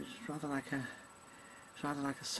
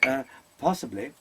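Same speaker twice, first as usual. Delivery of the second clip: kabuki call; 8 semitones higher, 21 dB louder, slower than usual. Acted. Imitating Kabuki backstage sounds.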